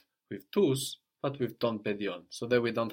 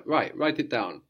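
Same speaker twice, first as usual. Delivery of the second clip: giving an order; 3 semitones higher, 3 dB louder than usual. Shown as a demonstration. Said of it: "like we give an order".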